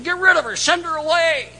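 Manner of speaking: high, loud, brushing her off; impatient disciples pushing the woman away, loud; impatient dismissal. Retold or imitated.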